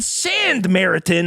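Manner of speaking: Sandmaritan starting with a clear "SAND"; Sandmaritan, the D sounded as in sand. Shown as a demonstration. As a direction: say Sandmaritan as sand-MARITAN, not Samaritan. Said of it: "not sandwich".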